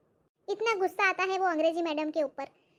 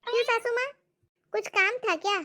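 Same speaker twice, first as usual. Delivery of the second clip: higher, polite bahu voice; high, dutiful daughter-in-law; sweet daughter-in-law; 6 semitones higher than usual. Acted. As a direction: sweetly answer the mother-in-law. Bahu replies to saas.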